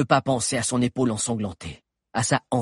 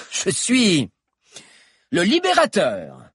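raised, louder villain voice, boastful; gloating villain; 5 semitones higher, 5 dB louder than usual. Acted. Stag lord gloating over the queen, raised and triumphant.

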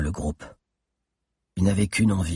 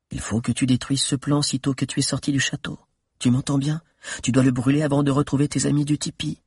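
voix d'Alix; 4 semitones higher than usual. Acted. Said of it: "le dernier mot d'Alix".

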